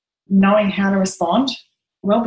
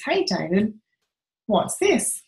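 forced calm mum; 3 semitones higher, slower than usual. Retold or imitated. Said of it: "she calms herself down".

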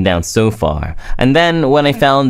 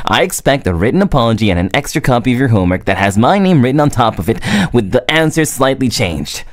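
mock demand; faster than usual.

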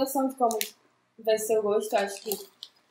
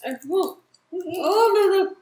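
speaking between bites; chewing while talking; 5 semitones higher, 7 dB louder than usual. Real, not acted. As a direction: mouth partly full of jelly. Seen 3: Woman in white bit jelly earlier, grimaces and chews while talking.

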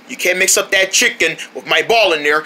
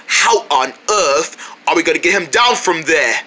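mock British accent. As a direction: ask it in a put-on British accent. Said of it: "not your British accent again".

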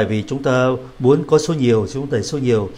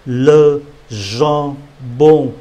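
"le jambon" drawn out slowly; slow model word; much slower than usual. Shown as a demonstration. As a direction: stretch "le jambon" syllable by syllable. (đọc chậm "le jambon")

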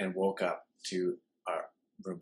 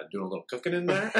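sly landlord jab; 10 semitones higher than usual. Retold or imitated. Landlord quoted in a story.

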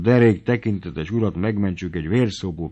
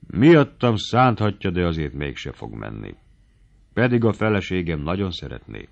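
plain reading voice

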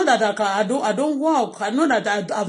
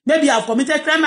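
ordinary talk, nothing marked

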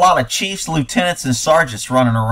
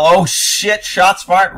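mild mock yell, raised in pitch; mock panicked yell; 5 semitones higher, slower than usual. Commentator mocking an officer at a school shooting, mock yell. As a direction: imitate a panicked shout at half force. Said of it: "you're gonna yell".

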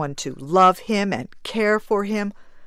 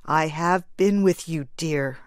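gently. Acted. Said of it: "said the man gently".

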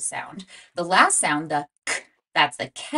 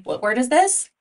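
eager prompting; 6 semitones higher, 4 dB louder than usual. Shown as a demonstration. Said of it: "teacher prompting class".

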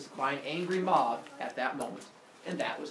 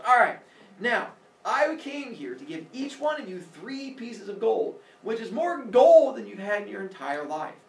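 lecturing from afar; 5 semitones higher, 7 dB louder than usual. Acted. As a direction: scold them loudly across the water. Aesop lectures from the lake.

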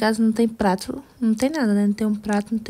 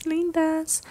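a higher, softer cooing repeat of "lindas"; 5 semitones higher, 3 dB quieter than usual. Pretend. Girl coos over her sleeping dolls, high and soft. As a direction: coo "lindas" fondly, up high.

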